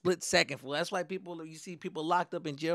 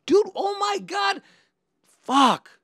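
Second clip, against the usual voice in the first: high, loud wail of disbelief; exasperated dismay; 8 dB louder, much slower than usual. Retold or imitated. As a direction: wail it like a busted kid. Culprit despairs at being snitched.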